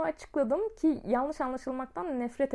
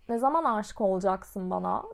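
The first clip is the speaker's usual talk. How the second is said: imitating his tone; 5 semitones lower than usual. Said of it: "ses tonlamasını yapmaya çalışacağım".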